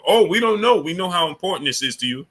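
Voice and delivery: mock innocent surprise, starting high and settling down; feigned surprise. Streamer mimicking the platform's excuse about blocked super chats, mock surprise. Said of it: "they act like they surprised".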